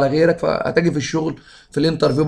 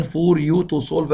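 slow dictation; much slower than usual. Shown as a demonstration. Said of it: "teacher reads exam sentence".

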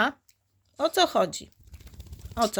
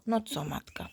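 whisper; 6 dB quieter than usual. Real, not acted. Whispering to mother dog.

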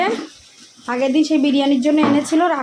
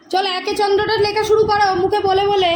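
mother setting homework aloud; firm teacher voice; 5 semitones higher, 4 dB louder than usual. Real, not acted. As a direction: get her started on the letters, louder. Mother instructing daughter at study.

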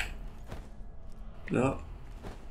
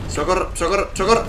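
alarm shout; 9 semitones higher, 4 dB louder, faster than usual. Real, not acted. Under attack in game.

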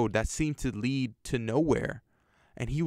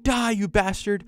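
shrill-pitched warped yelling, much higher; distorted shout; 6 semitones higher than usual. Acted. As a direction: yell it down at him like a demon in a grandma. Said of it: "Muriel shouted".

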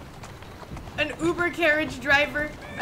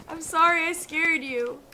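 soothing. Real, not acted. Soothing scared horse.

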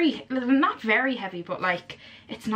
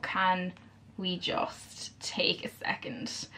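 whispering; 2 semitones lower, 8 dB quieter, much slower than usual. Real, not acted. Awed by palette.

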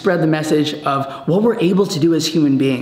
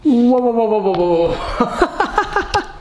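excited; 6 semitones higher, much slower than usual. Real, not acted. Reacting to the reversed footage.

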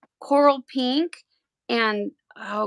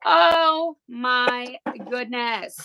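freaking out; much slower than usual. Real, not acted. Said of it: "really freak out and have excitement".

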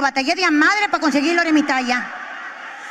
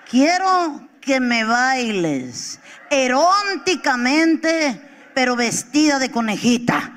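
imitando al marido; slower than usual. Retold or imitated. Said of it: "ridículo".

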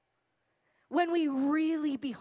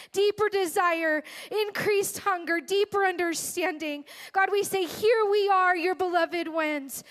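louder, rising, impassioned prayer that builds; fervent prayer; 4 dB louder than usual. Real, not acted. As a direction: pour your heart out to God, building in force. Leads a congregational prayer.

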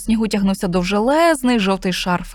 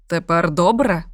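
put-on smiling old man; 3 semitones lower, slower than usual. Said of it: "посміхнувся старий в бороду".

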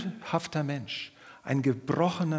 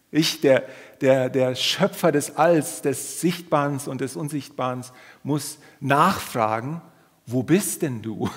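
mock grand God; 6 dB louder than usual. Ironic God voice, creator asking.

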